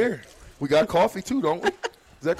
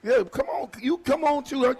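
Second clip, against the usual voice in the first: laughing call; 6 semitones higher than usual. Real, not acted. Host laughing, calling fans over.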